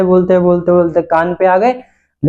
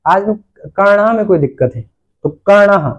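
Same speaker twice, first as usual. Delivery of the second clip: said the Sanskrit way; 2 semitones higher than usual. Shown as a demonstration. Teacher demonstrating the better sentence, plainly. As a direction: swap in कर्ण for कान as a model sentence. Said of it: "बोलना है".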